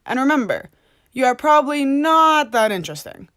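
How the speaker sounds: loud, preachy lecturing; preachy lecture. Pretend. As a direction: scold like a self-righteous activist. Lecturing an imagined man.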